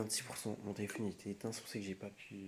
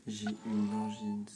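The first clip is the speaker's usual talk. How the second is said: slow, sore-throat voice, a bit louder; swollen tonsils voice; 6 dB louder, slower than usual. Real, not acted. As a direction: speak carefully through a painful throat. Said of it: "Ça me fait trop mal à la gorge".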